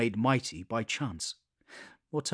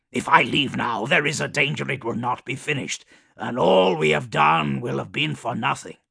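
Kugoth voice; 4 dB louder than usual. Acted. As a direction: bark back, busy and proud. Kugoth argues his work.

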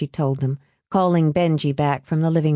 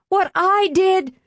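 even higher and slower, leaning on I; slower outraged repeat; 13 semitones higher than usual. Acted. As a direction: repeat it slower with mounting fury.

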